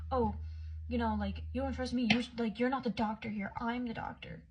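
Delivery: mock a doctor's outburst, stopping short of screaming; retold screaming. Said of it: "He starts screaming at me out of nowhere".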